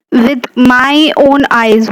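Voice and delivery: "my own" stressed, drawn out slowly; slow, deliberate weight on "my own"; emphasizing. Shown as a demonstration. Teacher giving an example of emphasis, stress on my own. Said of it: "You are emphasizing".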